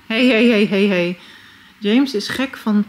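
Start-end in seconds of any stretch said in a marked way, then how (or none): 0.1-1.2 scolding. Real, not acted. Telling off the dog.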